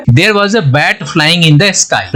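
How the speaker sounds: very slow, careful dictation; teacher dictating an English example sentence. Shown as a demonstration. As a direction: read it word by word for learners. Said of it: "इससे sentence बनाते हैं".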